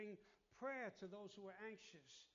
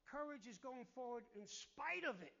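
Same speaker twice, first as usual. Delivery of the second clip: louder, rising preaching climax; preaching build; 3 semitones higher, 6 dB louder than usual. Real, not acted. Pastor presses the congregation on courage, louder. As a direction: drive the point home.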